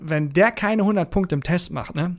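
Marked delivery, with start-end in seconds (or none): none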